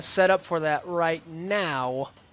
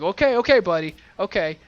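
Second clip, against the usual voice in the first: mock placating; 2 semitones higher, 5 dB louder than usual. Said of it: "And he's like".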